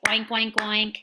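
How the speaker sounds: oinking like a pig; pig oinks. Shown as a demonstration. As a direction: make the pig sound. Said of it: "Pig says hello like this".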